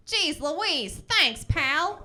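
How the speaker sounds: high, loud, over-eager mock thanks; awkward hearty reply. Awkward walker answering a catcaller, hammed-up loud cheeriness.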